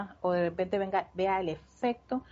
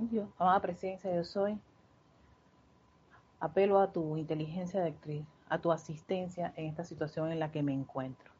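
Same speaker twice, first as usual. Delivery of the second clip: oración suave; 2 semitones lower, 4 dB quieter than usual. Shown as a demonstration. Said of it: "Invoca tu presencia de Soy".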